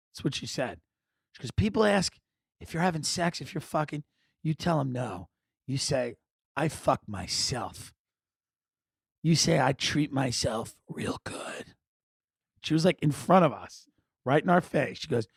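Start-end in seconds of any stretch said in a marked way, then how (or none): 1.5-11.7 hint of a madam, hushed and unhurried; lightly voiced madam, softer toward the end. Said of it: "she had the energy of a madam".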